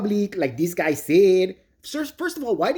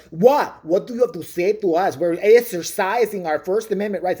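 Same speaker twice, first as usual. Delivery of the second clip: loud, defiant mocking comeback; mock defiant auditor; 2 semitones higher, 4 dB louder than usual. Imitating the auditor snapping at the librarian, loud. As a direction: snap back like a smug auditor. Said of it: "lady who's like".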